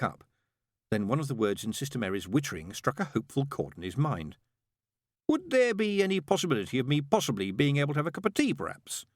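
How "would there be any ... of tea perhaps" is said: tentative request. A narrator's reading. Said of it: "he ventured".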